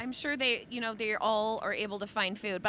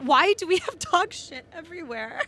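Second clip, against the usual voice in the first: high, loud, laughing disbelief; baffled and amused outburst; exasperated; 7 semitones higher, 4 dB louder than usual. Real, not acted. Mock outrage at dog poop.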